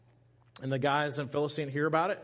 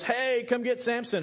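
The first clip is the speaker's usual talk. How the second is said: yelling; 8 semitones higher than usual. Acted.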